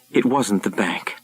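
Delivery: unvoiced, hushed confession; whisper. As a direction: whisper it like a guilty secret. The speaker quietly confesses.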